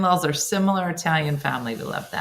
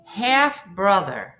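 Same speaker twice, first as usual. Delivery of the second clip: slow retry; 3 semitones higher, much slower than usual. Real, not acted. Restarting the confusing sentence.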